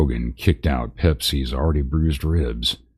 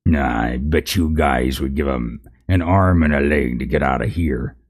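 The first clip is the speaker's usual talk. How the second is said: taunting narc. Acted.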